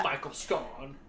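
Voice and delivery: "Scone" as "skon", rhyming with gone; rising end on "Scone", said "skon"; British pronunciation. Shown as a demonstration. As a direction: play on "Scone" with a short o. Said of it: "we say it like bon".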